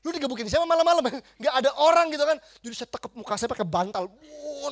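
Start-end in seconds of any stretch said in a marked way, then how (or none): 0.0-1.0 loud, high-pitched alarmed mom; mock motherly outcry; bewildered mother. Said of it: "mama saya apa nggak bingung". 4.1-4.7 high mock wail; drawn-out crying noise; imitated crying. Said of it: "nangis ya".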